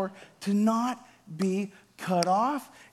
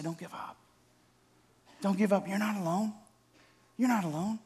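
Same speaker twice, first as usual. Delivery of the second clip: gentle encouragement; 5 dB quieter than usual. Pretend. Friend's arm round your shoulder.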